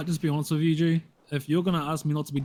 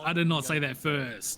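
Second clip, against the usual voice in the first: slow firm denial; slower than usual. Acted. Accused man slowly insisting he didn't say it first. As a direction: spell it out so he finally hears it.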